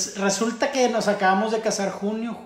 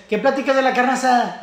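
louder, higher mimicked complaint; retold exchange; 7 semitones higher, 11 dB louder than usual. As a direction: act out the bickering, raised voice. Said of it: "Entonces dice".

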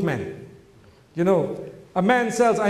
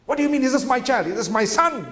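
mildly indignant, quick comeback; a touch of offence, rushed at the start; upset retort; 2 semitones higher, faster than usual. Acted. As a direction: act out a touchy, offended parent's reply. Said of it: "they get so upset".

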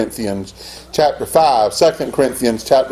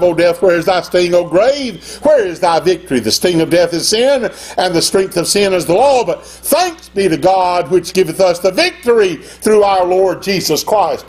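scripture reading; 3 semitones higher than usual. Acted.

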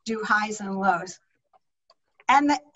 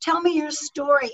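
eager listener; 3 semitones higher than usual. Pretend. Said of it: "the question in their mind isn't".

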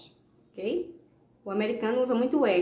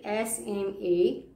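spelling out slowly; much slower than usual. Shown as a demonstration. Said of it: "Tem dois L's no final".

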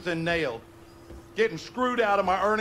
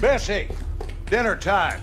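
calling out; 4 semitones higher than usual. Acted. Father calling the dog Bessie to dinner, raised voice.

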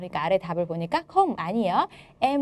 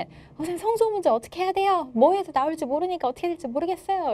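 높은 음으로 걱정스럽게 묻는 학생 흉내; 선생님께 하소연하듯 높은 목소리로; 걱정하는 학생; 8 semitones higher than usual. Retold or imitated. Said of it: "Q and A를 보면은". (학생이 선생님께 성조 문제를 물으며, 걱정스럽게)

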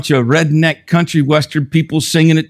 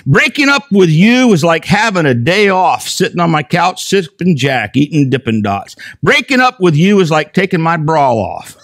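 lyrics read with rising, hammed-up excitement, higher and higher; mock dramatic reading; 4 semitones higher than usual. Preacher reading country song lyrics to the congregation, hammed-up and climbing. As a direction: ham up the breakup lyrics like a ballad. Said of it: "here's some of the words".

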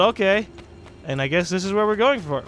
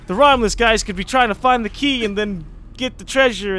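hurried, pressing call to a partner; urgent call; 4 semitones higher, 5 dB louder than usual. Pretend. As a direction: urge him on, no time to lose. Urgent in-game call to Ezio.

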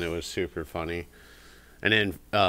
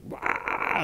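parrot squawk. Retold or imitated. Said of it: "Fred would, like".

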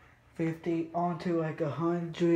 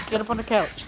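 higher, firmer urging; insistent dog command; 5 semitones higher, 4 dB louder, faster than usual. Real, not acted. Owner coaxing dog onto the couch, insistent. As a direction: urge the dog up more insistently.

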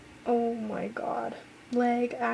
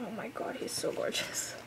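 soft whispered swoon; 6 dB quieter than usual. Real, not acted. Swooning fan whispering over a teaser picture. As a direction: sigh it out, smitten.

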